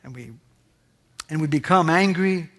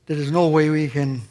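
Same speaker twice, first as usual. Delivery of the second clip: closing prayer. Acted.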